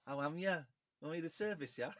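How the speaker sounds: imitating a Midlands accent; copied Midlands accent. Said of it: "say that in a Midlands accent".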